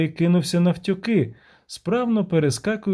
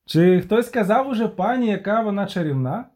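calling out; 5 semitones higher than usual. Acted. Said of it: "гукав Любисток".

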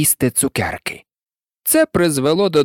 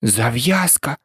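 lower, mild echo of the word; picking up the word; 4 semitones lower, slower than usual. A narrator's reading. Alice, ready to help, picks up the mouse's word, mildly. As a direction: take the word up in an everyday voice. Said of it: "підхопила Аліса".

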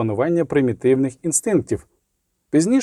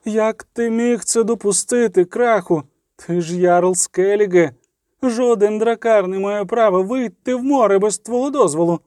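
angry queen; 8 semitones higher than usual. Acted. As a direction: lash the jarl with each question. Queen rebukes the jarl. (гнівна докірлива королева)

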